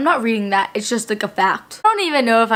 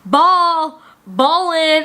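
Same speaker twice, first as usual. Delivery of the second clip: retold yell; 4 semitones higher, 3 dB louder, much slower than usual. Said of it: "she kept yelling out".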